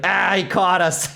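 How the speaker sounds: slow, laughing caught-out voice; mock sheepish. Imagining the company, sheepish and laughing. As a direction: play the company caught in the act. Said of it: "be like".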